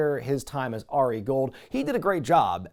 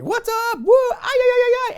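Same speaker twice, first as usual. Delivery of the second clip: high whooping yells, like a hype man; hollering at the crowd to get them going; annoying shouting; 8 dB louder than usual. Retold or imitated. Host whooping into the microphone at a wrestling crowd, shouting high. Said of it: "he shouts into the microphone".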